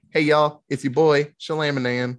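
lightly hammed-up vlogger intro; mock YouTuber intro. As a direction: pitch it like a hyped influencer. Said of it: "Shamamalan needs your money".

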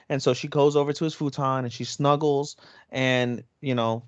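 usual speaking voice

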